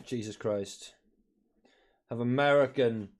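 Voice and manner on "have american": a lightly put-on, bad American accent; mocking American TV ads in a weak American accent; terrible American accent. Mock American accent mocking the halftime adverts. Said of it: "That was a terrible American accent".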